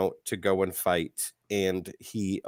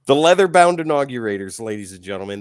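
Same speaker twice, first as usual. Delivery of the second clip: put-on booming old melodrama narrator; 3 semitones higher, 7 dB louder, faster than usual. Grand announcement of villain team.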